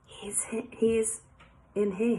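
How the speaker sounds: hushed, hesitant murmur; whispered. A narrator's reading. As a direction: say it under your breath, lightly hushed. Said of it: "he whispered".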